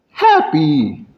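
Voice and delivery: cheerful demo of happiness; put-on happy delivery. Shown as a demonstration. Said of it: "range of emotions".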